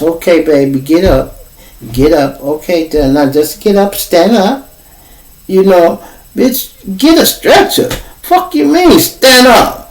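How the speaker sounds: rising into a high screech; mock the careless nurse; hammed-up impatient nurse; dismissive nurse. Rude nurse imitated.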